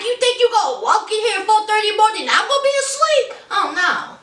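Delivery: high, fast, sassy wife voice. Retold or imitated. Wife catching husband sneaking in at dawn, high and fast. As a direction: fire it off quick and sharp.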